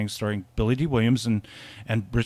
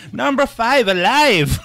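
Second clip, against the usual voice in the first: robot voice; 10 semitones higher, 9 dB louder, slower than usual. Retold or imitated. Quoting the robot, laughing.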